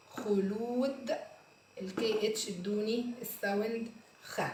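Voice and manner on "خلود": خلود again, slowly with a rise; slow repeat. Shown as a demonstration.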